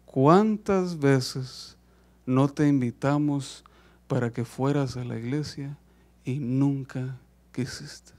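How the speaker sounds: a daughter gravely reproaching her father; serious reproach. Acted. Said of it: "se puso un poco seria". (reproche serio, bajo y lento)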